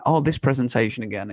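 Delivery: a hint of a monotone lecturer. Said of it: "talks in a very monotone voice".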